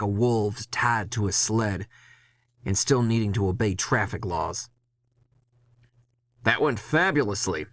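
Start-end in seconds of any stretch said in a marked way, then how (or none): 6.4-7.7 sarcastic. Acted. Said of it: "I say".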